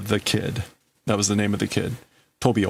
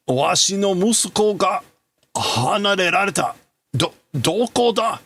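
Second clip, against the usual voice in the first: a lightly voiced anxious father, raised pitch; distraught father; 9 semitones higher than usual. Reading a Japanese anime line as the frightened father, raised pitch. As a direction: read the father's lines as if searching for his son.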